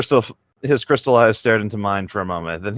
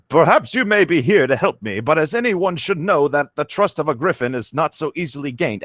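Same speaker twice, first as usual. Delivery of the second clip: griffin voice; 6 semitones higher than usual. Acted. Griffin answers.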